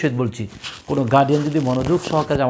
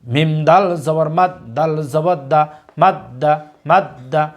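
teacher's recitation, letter by letter; slow spelling drill; slower than usual. Shown as a demonstration. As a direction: spell each letter slowly, then say the word thrice. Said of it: "লক্ষ্য করুন". (ধীরে বানান করে তিনবার উচ্চারণ)

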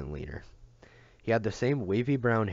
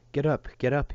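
loud, higher shouted order to the horse; 7 semitones higher, 6 dB louder than usual. A narrator's reading. Rider shouting at his collapsed horse, loud order. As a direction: yell it at the stumbling horse. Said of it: "he ordered".

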